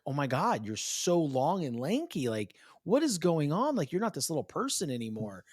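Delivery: lightly acted amazement, pitch lifted; amazed dad. Dad picks up his suddenly lanky daughter, mildly astonished. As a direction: marvel at how much your child has grown.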